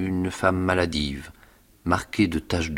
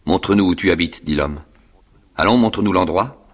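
loud rough order; gruff demand; 5 dB louder than usual. Acted. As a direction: bark it impatiently. Convict demanding.

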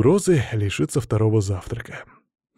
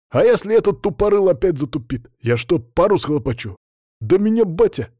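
put-on higher-pitched boy's anxious complaint; agitated protest; 7 semitones higher, 4 dB louder than usual. A narrator's reading. Boy protesting, fearing his dad's reaction. (взволнованно, с возмущением)

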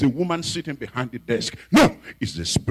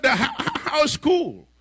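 sweet innocent question; 13 semitones higher, slower than usual. Retold or imitated.

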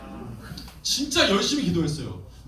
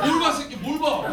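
tough-guy taunt; 9 semitones higher than usual. Retold or imitated. Confronting kids.

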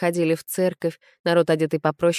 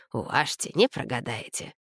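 much softer, wheedling beggar's whine; fawning beggar voice; 4 semitones lower, 6 dB quieter than usual. A narrator's reading. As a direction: grovel for a coin. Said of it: "противным заискивающим голосом". (противный заискивающий голос нищего, намного тише)

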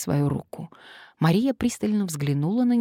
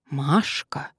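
whispering. Acted. Friend warns in low voice.

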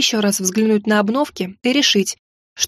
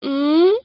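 queasy closed-mouth moan; groggy hum through closed lips; nauseous mumbling hum; 5 semitones higher than usual. Acted. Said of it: "промычала я".

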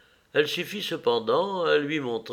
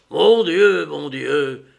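horrified cry; 3 semitones higher, 10 dB louder, slower than usual. A narrator's reading. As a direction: cry out to God in shock. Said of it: "cria-t-il".

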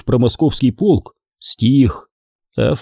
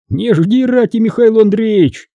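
high-pitched, scoffing reply; amused snort; 9 semitones higher than usual. A narrator's reading. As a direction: dismiss it with light mockery. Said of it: "фыркнул Фома".

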